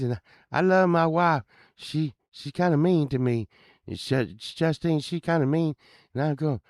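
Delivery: high, loud henpecked husband; old neighbor's voice. Retold or imitated. Henpecked neighbor telling the band he can drive them, high eager voice. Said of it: "he talked like this".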